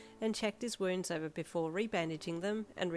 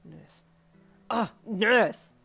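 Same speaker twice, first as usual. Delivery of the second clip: calling out; 3 semitones higher, 12 dB louder, much slower than usual. Acted. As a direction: yell for help down the hall. He calls for a nurse.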